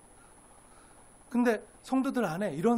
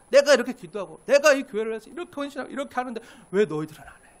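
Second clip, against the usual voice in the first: self-righteous reproach; 2 semitones higher, 5 dB louder, faster than usual. Acted. Preacher voicing a believer blaming others for doing less, reproachful. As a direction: list your sacrifices, then reproach the others.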